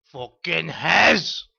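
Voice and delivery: drawn out. Acted. Calling out the name slowly.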